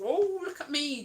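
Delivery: a hint of a look-at-me drag queen; lightly voiced show-off on the "oh"; drag queen act. British drag queen showing off in the act, showy. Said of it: "sort of ... drag".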